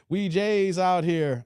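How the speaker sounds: slow, lightly voiced Steve Harvey impression; a hint of a game show host, slowed right down. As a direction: drag it out like a talk show host, half-joking. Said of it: "in my Steve Harvey voice".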